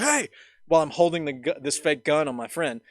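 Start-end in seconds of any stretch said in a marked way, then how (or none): 0.0-0.3 imitated guard's holler; yelling from afar. Guard spotting a gun from across the lot, retold yell. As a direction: call out across a wide lot. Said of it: "yelling from across the parking lot".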